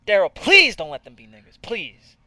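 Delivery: mock begging. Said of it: "I'm begging you".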